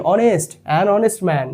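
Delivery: "honest" begun on o, the h silent. Shown as a demonstration. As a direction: say "honest" without any h, linked to "an". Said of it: "উচ্চারণটা শুরুই হচ্ছে ও থেকে".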